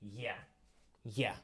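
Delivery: Russian letter E said as "yeah"; Russian letter pronunciation. Shown as a demonstration. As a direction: say "yeah" as a short ye sound. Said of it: "in Russian, it will be more like".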